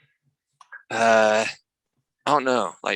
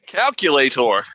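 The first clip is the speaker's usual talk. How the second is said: mock Korean accent, louder; 2 semitones higher, 6 dB louder, slower than usual. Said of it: "I'm joking".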